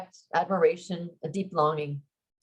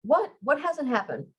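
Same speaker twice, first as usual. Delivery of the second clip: alarmed; 8 semitones higher than usual. Acted. Alarmed at her sudden attack.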